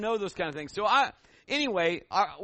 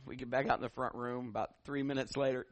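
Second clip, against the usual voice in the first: ordinary delivery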